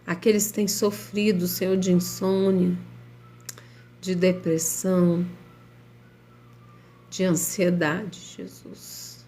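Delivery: prayer. Acted. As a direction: pray earnestly over the listeners. Leads a live prayer.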